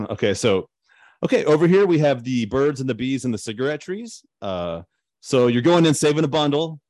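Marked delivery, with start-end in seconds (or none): 1.2-6.8 higher, louder sales pitch; gushing real estate agent. Pretend. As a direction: sell it like an eager realtor. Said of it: "get into my real estate agent voice".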